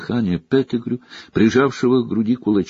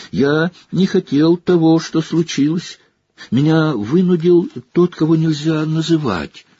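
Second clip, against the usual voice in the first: high, snivelling excuses; whining Pettigrew; 6 semitones higher than usual. A narrator's reading. Pettigrew begs Sirius for mercy, high and snivelling. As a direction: plead and grovel, voice up high.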